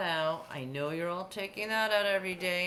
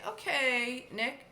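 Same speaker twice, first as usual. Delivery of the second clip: higher, louder mom asking for a name; playing mom; 6 semitones higher, 4 dB louder, slower than usual. Teacher pretending to be mom, higher and brighter. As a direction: voice the mom asking her kid. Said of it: "So if I were your mom".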